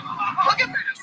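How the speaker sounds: alert chirpy meerkat voice. Acted. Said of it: "Alex does a meerkat impression".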